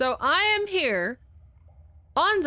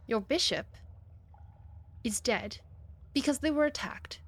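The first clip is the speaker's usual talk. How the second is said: whisper; 6 dB quieter than usual. Acted. Whispered secret to the queen.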